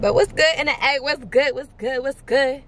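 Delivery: hyped greeting. Real, not acted. Arriving hyped in Atlanta.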